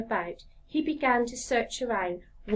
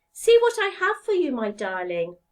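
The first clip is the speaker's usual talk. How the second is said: higher, louder, fast and eager; eager woodcarver; 3 semitones higher, 6 dB louder than usual. Acted. Woodcarver eagerly showing his wife the log. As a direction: rush to show her the gift. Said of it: "said the woodcarver".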